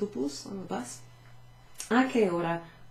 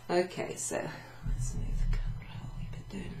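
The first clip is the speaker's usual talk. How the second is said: put-on Scottish accent. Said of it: "little Scottish accent".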